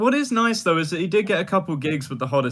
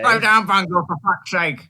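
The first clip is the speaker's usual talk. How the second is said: put-on British accent; 3 semitones higher, 4 dB louder than usual. Quoting in a British voice.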